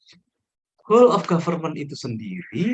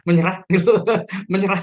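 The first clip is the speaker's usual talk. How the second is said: teasing through laughter, higher; laughing tease; 7 semitones higher, 6 dB louder than usual. Real, not acted. Teacher teases a student who gives up: laughing tease. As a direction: laugh while teasing him.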